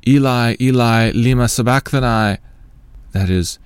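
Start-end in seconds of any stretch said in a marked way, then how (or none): 0.1-2.4 higher, lifted narrated outcry; loud cry. A narrator's reading. Jesus crying out at the ninth hour, narrated loud cry. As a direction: raise the voice into a sustained cry. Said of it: "cried out with a loud voice".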